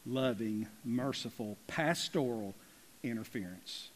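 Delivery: low, hushed, weighty vow; solemn pastoral resolve. Acted. Voices Paul's solemn pastoral vow.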